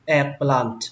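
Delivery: eggplant starting with open "eh", EHG-plant; second pronunciation. Shown as a demonstration. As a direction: say "eggplant" with an open first vowel. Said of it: "Cách đọc thứ hai các bạn đọc là".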